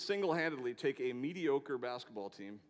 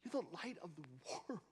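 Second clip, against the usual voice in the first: hushed, dropped much softer; soft hushed delivery; 2 semitones higher, 9 dB quieter, faster than usual. Shown as a demonstration. Preacher to congregation, saying the verse in a hush. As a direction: say it softly, let it land. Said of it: "made that statement too small".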